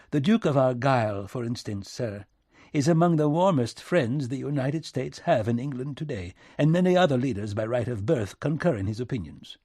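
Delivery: earnest British envoy pleading his case; British minister, defensive. Acted. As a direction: put the case politely and earnestly.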